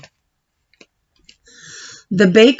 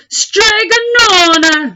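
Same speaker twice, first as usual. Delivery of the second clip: higher, drawn-out call with a cry; shouted name; 14 semitones higher, slower than usual. Acted. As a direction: call out for Stregonona from afar. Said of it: "he shouted".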